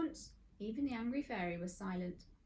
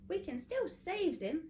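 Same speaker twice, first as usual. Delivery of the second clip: fierce; 9 semitones higher, 4 dB louder, slower than usual. Acted. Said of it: "said Polly fiercely".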